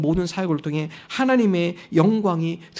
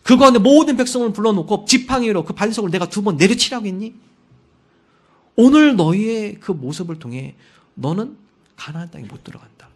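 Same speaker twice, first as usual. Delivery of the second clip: loud, higher, stern rebuke; God's rebuke; 3 semitones higher, 7 dB louder than usual. Retold or imitated. God rebuking Moses for striking the rock, loud and stern. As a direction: scold him from above with authority. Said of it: "모세에게 책망해요".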